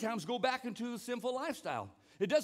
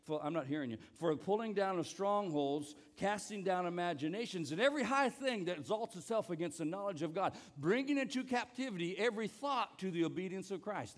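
scripture recitation; 3 semitones lower than usual. Shown as a demonstration. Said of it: "That was my turn".

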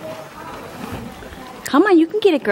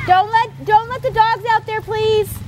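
raised, pitched-up plea; calling out; 9 semitones higher than usual. Real, not acted. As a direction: call out to keep the dogs in. Calling out about the dogs.

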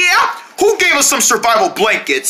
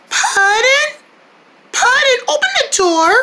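calling out. Acted. Friends calling through door.

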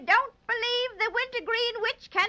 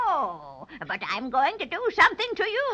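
sly witch threat; menacing witch; 5 semitones lower than usual. Acted. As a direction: cackle then threaten.

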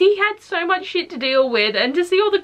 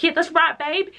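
cheering on; 6 semitones higher than usual. Retold or imitated. Cheering Henry on while reading.

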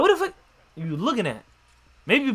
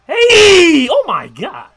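high, loud cheering yell; excited shout; 8 semitones higher, 10 dB louder, much slower than usual. Real, not acted. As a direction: holler at the screen. Cheering a play.

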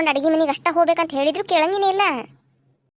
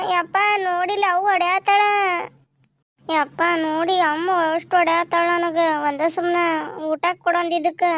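put-on whining child. Child complains to father.

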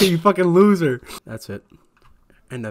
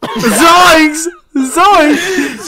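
high, loud Zoinks through laughter; mock shout; 9 semitones higher, 6 dB louder than usual. Friend echoing the clip with a laughing shout. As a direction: yell it back at the clip.

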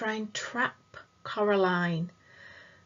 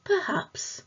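sad ghost; 10 semitones higher than usual. A narrator's reading. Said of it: "said the voice sadly".

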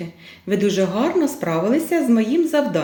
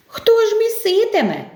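questioning rooster; 12 semitones higher than usual. Acted. Rooster asks who will knead.

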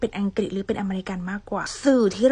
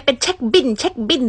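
louder and higher, mocking the mix-up; teasing mock; 4 semitones higher, 6 dB louder, faster than usual. Shown as a demonstration. Teacher teasing students who say เช็คบิล in playful mockery. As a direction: poke fun at the mixed phrase. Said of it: "เชื่อเด็กคนนี่ทุกคนจับมาใส่".

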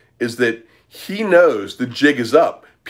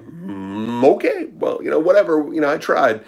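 shrugging Jordan impression. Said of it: "Belfort's like".

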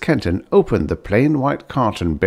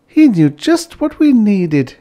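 praising; 13 semitones higher, 6 dB louder than usual. A narrator's reading. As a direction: gush with gratitude. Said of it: "lauded Bliss".

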